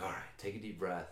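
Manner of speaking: softly steadying himself; real calm. Retold or imitated. Rider talking himself down before a confrontation, real calm. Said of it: "I'm, like, real calm about it".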